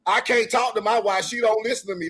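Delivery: normal talking voice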